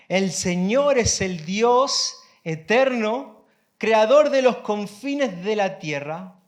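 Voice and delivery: deliberate, emphatic Bible reading; solemn pulpit reading; scripture reading. Acted. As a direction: pause between questions, then proclaim it firmly. Reads scripture to congregation.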